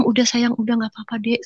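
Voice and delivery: put-on calm a crying child quietly; gentle soothing. Big sister comforting younger siblings, gentle soothing.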